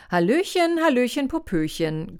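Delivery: high, loud, bubbly sing-song hello; cheerful greeting. A narrator's reading. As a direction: burst in bright and cheerful. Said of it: "grüßte er heiter".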